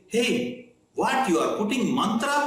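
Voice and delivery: sharp, high accusing challenge; a suspicious king calling out a trickster; upset king. Retold or imitated.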